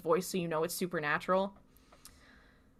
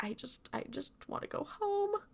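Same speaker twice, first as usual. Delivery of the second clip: lightly voiced crying girl; 8 semitones higher, 9 dB quieter than usual. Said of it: "she's crying".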